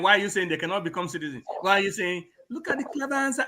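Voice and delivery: ordinary delivery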